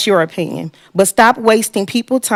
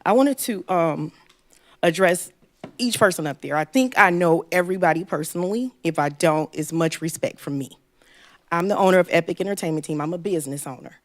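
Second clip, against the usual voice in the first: nervous; 8 dB quieter than usual. Real, not acted. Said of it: "I'm not a public speaker like the gentleman before me, so this is kinda hard".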